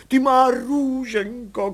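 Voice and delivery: high, very slow weeping cry; crying out in tears. A narrator's reading. Mother reunited with her baby, crying out in tears. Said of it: "křičela v pláči".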